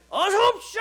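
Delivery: high, loud cheery welcome shout; bar greeter. Retold or imitated. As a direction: greet the customer like a barkeeper. (술집 종업원처럼 높고 크게 외치는 인사)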